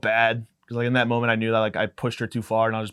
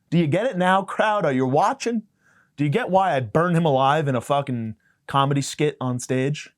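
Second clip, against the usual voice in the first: calling out to crowd; 3 semitones higher than usual. Real, not acted. Addressing crowd on stage.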